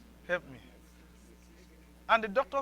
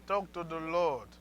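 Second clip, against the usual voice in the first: prayer; slower than usual. Shown as a demonstration. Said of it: "I didn't say you should whisper".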